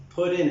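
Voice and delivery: "put in" with the short u of "foot"; correct "put in". Shown as a demonstration. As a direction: say "put in" linked, with a clear t, unlike "pudding". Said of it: "and it's not pudding".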